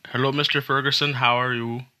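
put-on tentative first try at a Central Asian call-centre accent. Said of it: "like, imitate an accent".

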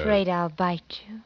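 breathy seductive whisper. Acted. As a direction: whisper it close. Seductive hushed exchange.

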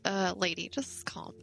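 soft, slow calming voice; imitating calm reassurance. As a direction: talk her down slowly and quietly, as the EMT. EMT calming her, retold.

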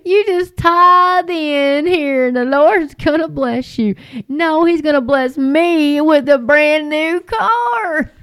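lightly mocking the preacher who promises a new car; mock televangelist. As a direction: sell the blessing like a TV huckster. Mocking prosperity preachers' pitch.

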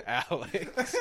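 a hammed-up cowboy accent yelling his name. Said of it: "he's doing the cowboy accent".

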